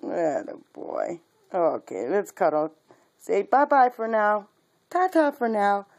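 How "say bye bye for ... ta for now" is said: sing-song goodbye. Real, not acted. Saying bye for the puppies, in high sing-song.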